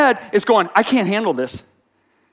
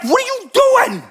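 exasperated outburst; 14 semitones higher than usual. Retold or imitated. Preacher scolding a twitching crowd, high exasperated cry. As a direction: throw up your hands at the twitching crowd. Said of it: "I'm like".

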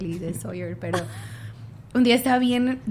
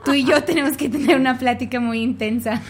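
laughing quote; 3 semitones higher, 4 dB louder than usual. Retold or imitated. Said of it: "me dice".

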